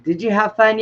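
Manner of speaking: lightly voiced mom asking; a hint of a cheery mother; mom's question. Mom asking daughter at night.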